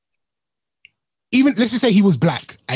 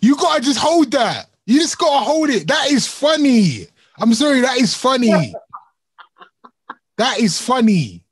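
raised, slow, laughing through it; can't help finding it funny; amused; 5 semitones higher than usual. Real, not acted. Reacting to joke.

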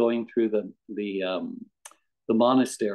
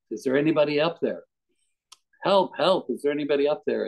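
higher-pitched, restrained call for help; mock yell; 4 semitones higher, faster than usual. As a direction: act out calling upward, without full volume. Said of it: "he yells out".

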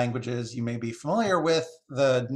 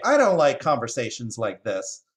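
loud, mildly squawky complaint; squawking jay; 5 dB louder than usual. Acted. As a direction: complain loudly as a displeased jay. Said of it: "squawked the jay".

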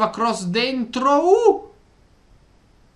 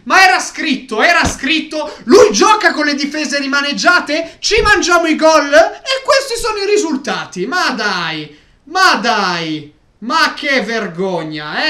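loud, higher furious yelling; angry shouting rant; 3 semitones higher, 4 dB louder than usual. Real, not acted. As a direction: rant loudly at the coach. Fan raging at coach.

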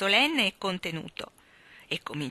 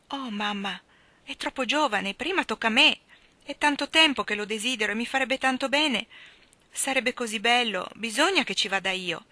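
higher, eager begging; pleading; 4 semitones higher, 3 dB louder than usual. Acted. Jo begs her mother to let her go, eager pleading. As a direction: beg for your turn.

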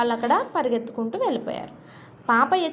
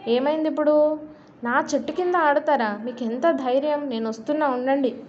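mock angry shout; 3 semitones higher than usual. Miser Papayya chasing children from his tree, mock shouting. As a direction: play the miser yelling at kids. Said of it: "అని అరుస్తూ".

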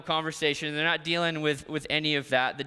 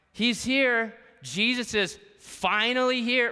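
Martha's excited news; 7 semitones higher, slower than usual. Acted. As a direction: burst in with relief that he came. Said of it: "Martha comes up".

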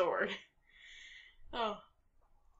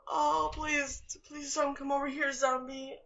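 higher anxious plea; frightened pleading; 5 semitones higher than usual. Real, not acted. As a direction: beg in fear. Begs zombie to stay away.

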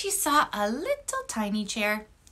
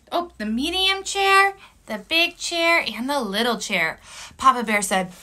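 animated read-aloud with gasps and dramatic pauses; storytelling for children. A narrator's reading. Teacher reads story to kids.

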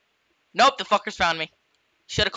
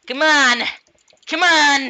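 cheering shout; 5 semitones higher, 6 dB louder than usual. Real, not acted. Cheering on in game.

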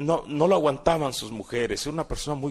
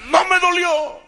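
high, loud defiant cry; defiant yell; 6 dB louder than usual. Retold or imitated. Son to beating father, high loud defiant yell. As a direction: spit it back at him again, unbroken.

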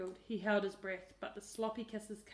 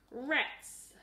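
frustrated; 4 semitones higher, 7 dB louder than usual. A narrator's reading. Tricked boy curses.

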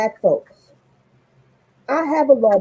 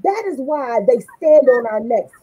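preaching; 5 semitones higher than usual. Real, not acted. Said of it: "Preach, sister".

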